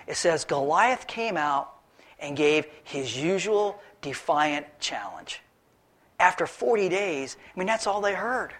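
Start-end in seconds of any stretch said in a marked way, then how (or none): 0.5-5.4 slow, deliberate reading of the verse; the usual defiant challenge read slow and weighty; savoring scripture. Shown as a demonstration. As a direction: read it out slowly, relishing each word. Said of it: "I love the way the Bible puts it".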